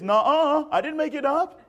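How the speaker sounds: put-on playful kid's nuh-uh with a laugh; childish denial. Preacher imitating kids' denial: playful childish. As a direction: deny it like a kid in the playground. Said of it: "as we say as kids".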